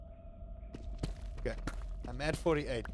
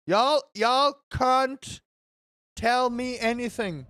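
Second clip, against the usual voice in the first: slow boast; 6 semitones higher, 6 dB louder, slower than usual. Real, not acted. Bragging at chat.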